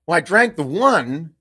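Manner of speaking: slow, emphatic caffeinated confession; jacked up. Retold or imitated. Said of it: "like, a little jacked up".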